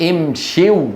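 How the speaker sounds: امشوا said slowly as "im-shiw"; unadjusted vowel. Shown as a demonstration. Teacher adding the plural waw to the verb, unadjusted vowel. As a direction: keep the i before w in امشوا. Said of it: "وإذا وضعت واو الجماعة".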